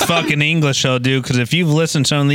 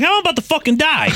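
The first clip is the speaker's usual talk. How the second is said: much higher, laughing mock terror; half-laughing fake fright; laughing panic; 11 semitones higher than usual. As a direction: squeal it through laughter. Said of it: "I'm like".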